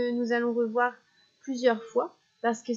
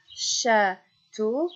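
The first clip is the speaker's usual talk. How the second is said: château, un peu plus fort sur le tô; détache la dernière syllabe de château; stress on final syllable; 4 dB louder than usual. Shown as a demonstration. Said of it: "répéter trois fois la dernière syllabe". (château, finale marquée)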